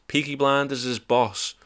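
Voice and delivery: slow mock Birmingham accent; Brummie accent. Plugging the podcast to Birmingham listeners, mock Brummie accent. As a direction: stretch it out in a put-on Brummie accent. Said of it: "That's Birmingham, innit?".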